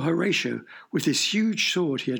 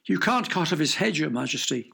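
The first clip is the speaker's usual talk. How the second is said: pleading cry. Acted. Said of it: "cried the servant".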